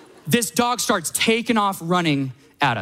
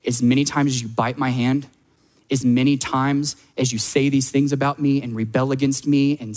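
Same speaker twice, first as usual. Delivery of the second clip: tender voice of God; 3 semitones lower than usual. Pretend. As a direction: speak as a patient father holding on. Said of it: "he loves you enough to say".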